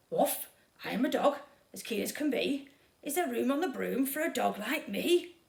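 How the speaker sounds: a keen puppy asking to join; eager dog voice. Acted. Dog begs witch for a ride, eager. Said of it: "then eagerly said".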